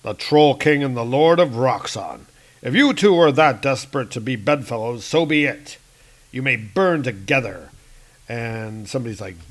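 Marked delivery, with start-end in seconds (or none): 0.0-7.7 louder, solemn pronouncement; lightly voiced stern god; stern Thor. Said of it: "He's like".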